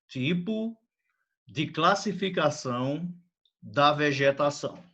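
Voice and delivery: paused, word-by-word dictation; dictating word by word. Shown as a demonstration. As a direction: break it into chunks for copying. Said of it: "Escrevam, por favor".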